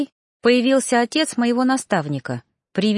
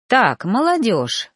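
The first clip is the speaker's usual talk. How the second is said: slow, calm fatherly address; slower than usual. Acted. Host calmly interrupts the quarrelling young pair. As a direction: settle the youngsters down slowly. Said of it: "донёсся спокойный голос хозяина дома".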